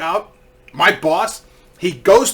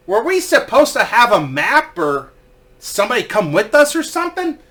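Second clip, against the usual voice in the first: higher-pitched innocent questioning; feigned cluelessness; 5 semitones higher, 3 dB louder than usual. Retold or imitated. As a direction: ask it as if mildly puzzled. Guide pretends to be clueless.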